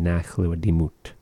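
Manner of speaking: Nachla Dimut ending on T, without any S; no personal ending. Shown as a demonstration. Teacher showing the bare word, Nachla Dimut with no S ending. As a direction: stop Dimut on the T, no hiss after it. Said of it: "there is no personal ending".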